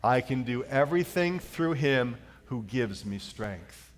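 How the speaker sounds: slow, measured unison recitation; congregational reading. Shown as a demonstration. Pastor leading the church in slow recitation. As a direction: read it together in steady meter. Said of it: "Let's do it again".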